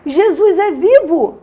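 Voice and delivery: loud, high, drawn-out exultant cry; re-enacted shouting. New believer shouting alone in her room, exultant cry. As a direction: proclaim it at the top of your voice. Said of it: "eu comecei a gritar dentro do quarto".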